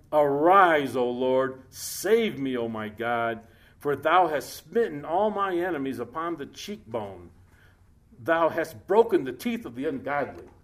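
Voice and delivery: loud opening call, then steady reading; preacher reading a war psalm; scripture reading. Acted. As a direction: proclaim the verse like a battle cry. Reads psalm verses.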